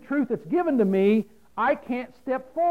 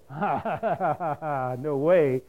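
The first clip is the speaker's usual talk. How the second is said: scornful ha ha ha, lower; mocking laugh; 5 semitones lower, slower than usual. Believer laughing off a deceiving voice, scornful. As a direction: laugh off the lie. Scoffing at a false voice.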